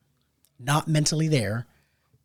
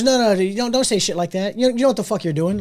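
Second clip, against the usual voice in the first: mouthing off; 6 semitones higher, 3 dB louder than usual. Retold or imitated. Girlfriend mouthing off at guys.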